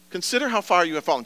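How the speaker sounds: fast, brisk repeat of "Consider how far you have fallen"; quick restatement. Shown as a demonstration. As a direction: rattle it off as a summary. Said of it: "He puts it this way".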